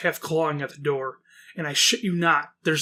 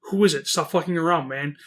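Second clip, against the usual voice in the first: retold yelling. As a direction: call out through the door, half-hearted shout. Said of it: "We keep yelling outside".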